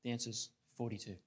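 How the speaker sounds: quiet, unhurried machine answer; calm computer. Retold or imitated. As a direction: state it calmly, like a computer with no doubt. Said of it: "calmly says".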